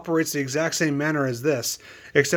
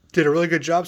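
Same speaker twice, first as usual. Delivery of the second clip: talking through hiccups; speaking with the hiccups; faster than usual. Real, not acted. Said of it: "Sorry, I have the hiccups".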